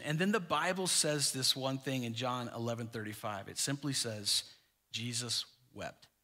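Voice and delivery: low, soft, grave delivery; hushed solemnity. Real, not acted. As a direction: let it drop low and quiet. Solemn reading of shortest verse.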